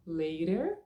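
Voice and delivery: first option: LATER, American tap and R; LATER, T like a quick D, R sounded; flapped T with R. Shown as a demonstration. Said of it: "Você pode pronunciar".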